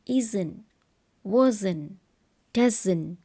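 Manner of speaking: isn't, wasn't, doesn't said slowly, each in two clear syllables; two-syllable contractions. Shown as a demonstration. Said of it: "two syllables".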